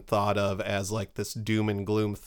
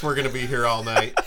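normal talking voice

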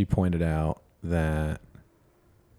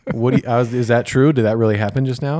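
shocked disbelief; 3 semitones higher, 6 dB louder, faster than usual. Retold or imitated. To therapist, after her blunt observation, loud stunned disbelief. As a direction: blurt it out in shock.

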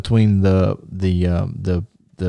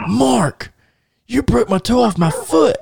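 put-on whiny kid; 13 semitones higher than usual. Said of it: "I'm like".

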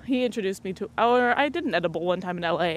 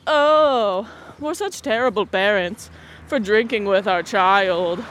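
slow, hammed-up guilty parents; drawn-out mock lament of parents; mock parental guilt; 3 dB louder, slower than usual.

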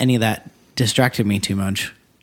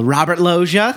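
raised announcer shout; announcing shout; 4 semitones higher than usual. Pretend. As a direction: call the name like an entrance. Hailing Loggia's entrance.

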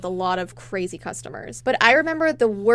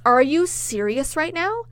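indignant customer; 3 semitones higher than usual. Retold or imitated. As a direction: imitate an affronted customer. Retold customer snapping at cashier.

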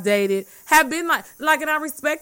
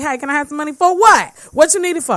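sounding like his daddy; 4 semitones higher, 7 dB louder than usual. Retold or imitated. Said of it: "it be sounding like my daddy".

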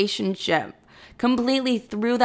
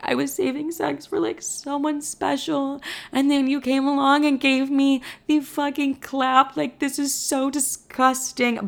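mock bawling; 6 semitones higher than usual. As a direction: imitate yourself crying dramatically, pitched way up. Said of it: "Bawling my eyes out".

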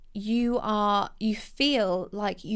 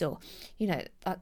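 usual speaking voice

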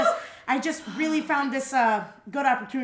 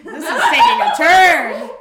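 slow laughing remark; 5 semitones higher, 14 dB louder, slower than usual. Real, not acted.

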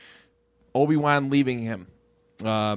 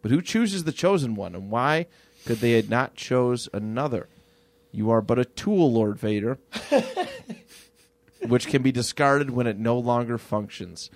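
Palpatine rant; 2 semitones lower than usual. Retold or imitated. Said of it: "Emperor Palpatine goes on this rant".

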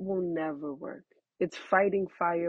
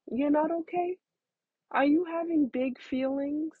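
put-on higher, sing-song voice for a baby; talking to a toddler; 5 semitones higher than usual. Shown as a demonstration. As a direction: coo gently to a fourteen-month-old. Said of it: "I would honestly say".

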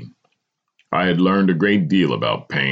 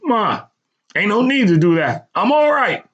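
higher, louder, insistent; voice gaining strength; 5 dB louder than usual. A narrator's reading. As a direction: insist firmly to mother. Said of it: "My voice gained strength in an instant".

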